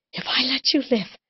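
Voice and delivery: tearful pleading. Acted. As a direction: plead through tears.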